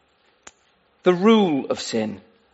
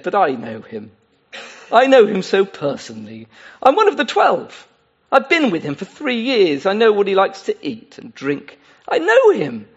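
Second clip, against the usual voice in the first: pleading Judas. Acted. Imagined protest from Judas.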